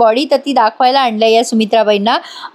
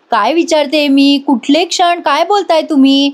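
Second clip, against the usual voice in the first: insistent demand; 3 semitones higher than usual. Retold or imitated. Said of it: "Aishwarya म्हणते".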